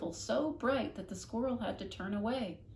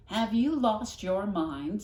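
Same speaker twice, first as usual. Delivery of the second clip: loud, slow incredulous question; shocked neighbour to Flora; aghast neighbour; 3 semitones higher, 8 dB louder, slower than usual. Acted. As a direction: demand it in disbelief. Mrs Tickham aghast.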